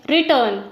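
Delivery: रिटर्न with a light री and a weighted टर्न; stress on second syllable. Shown as a demonstration. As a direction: lean on टर्न in रिटर्न, leaving री unstressed. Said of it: "टर्न को बोलने में जोर लग रहा है".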